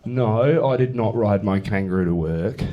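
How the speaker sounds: lightly exaggerated Australian vowels; Australian accent. Shown as a demonstration. Comic giving an example of Australian no, hammed-up Australian accent. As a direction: say it with a broad Australian "no". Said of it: "Australian people say no".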